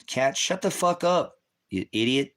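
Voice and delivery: high, drawn-out exasperated shout-down; real irritated outburst. Real, not acted. Streamer tells off a chatter typing in capitals, irritated. Scolding a chatter named Cat.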